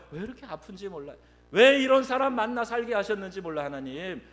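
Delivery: whining complaint building to a high, loud shout; arguing with God. Retold or imitated. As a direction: start aggrieved, end yelling why at heaven. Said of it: "하나님께 따지는 거예요".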